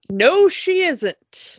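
retold disbelief. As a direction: stretch it out slowly in disbelief. Retold disbelief at claimed origin.

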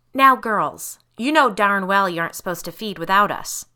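loud, stern parental scolding; admonishing father. A narrator's reading. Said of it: "Mister Kimmel admonished".

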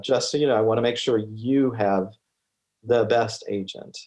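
lightly voiced dad, measured and matter-of-fact; a hint of fatherly advice. Shown as a demonstration. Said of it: "I put my dad voice on".

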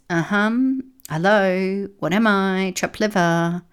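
affronted growling, pushed up and out; growled complaint. A narrator's reading. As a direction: demand attention as a grumpy, snubbed echidna. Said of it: "she growled".

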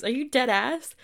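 high and loud, can't believe it; amazed disbelief. Retold or imitated. Asking the client if she's serious, loud high amazement. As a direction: demand it's really true. Checking client isn't joking.

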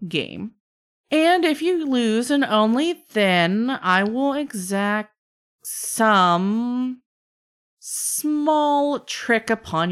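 theatrical trickster with drawn-out, swooping phrases; bargaining trickster. Acted. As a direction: lay out the bargain with a showman's relish. Game master plays bargaining trickster.

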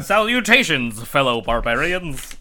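prim, proper spider voice with a laugh. Acted. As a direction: play a very polite spider, half laughing. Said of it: "That's your spider voice".

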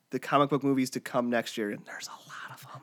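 hushed whisper tease. Real, not acted. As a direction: whisper it like a secret. Whispered teaser for next show.

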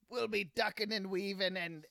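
put-on Scottish-accented racing talk. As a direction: slip into a full Scottish accent. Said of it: "that was full Scottish".

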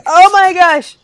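high, loud mock alarm; alarmed exclamation. Player acting out their clumsy drop, mock alarmed exclamation. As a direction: yelp it high as if slipping off. Acts out botched wall descent.

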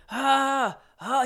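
drawn-out "ah" imitating a kid's holler; imitated yell. Retelling a kid yelling at everybody, mild mock yell. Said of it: "He was yelling this".

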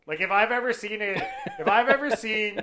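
words broken up by laughter; chuckling while recalling the angry look; laughing. Real, not acted. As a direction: laugh through it while telling. Laughing while recalling friend's anger.

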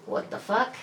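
high incredulous gasp of a question; floored by what the nurse said; shocked disbelief. Retold or imitated. Hearing her boyfriend is there for detox, stunned.

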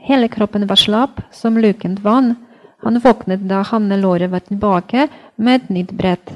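measured read-aloud in Norwegian; story reading. Acted. Translator reads a book excerpt to podcast listeners, story reading. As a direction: read the novel excerpt at an unhurried pace, in separate phrases.

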